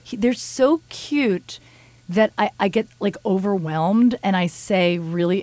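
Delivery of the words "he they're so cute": cutesy gush. Real, not acted. Gushing over cats.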